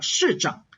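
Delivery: 市长 with the pitch simply falling away; let it fall. Shown as a demonstration. Teacher showing an easier option, letting 市长 fall. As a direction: let the tone drop on 市长. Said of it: "You can just let it fall".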